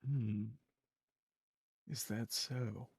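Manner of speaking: low, suspicious priestess. Acted. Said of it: "and she says".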